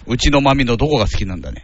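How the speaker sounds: lightly voiced dad grilling the boyfriend; a hint of formal paternal questioning; questioning father. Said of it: "お父さん".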